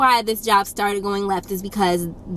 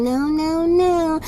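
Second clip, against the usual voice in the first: higher, pleading repeated no; mock weak parent; 7 semitones higher, much slower than usual. Parents pleading with the toddler, mock weak no. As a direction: limp sing-song no's. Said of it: "They just keep saying".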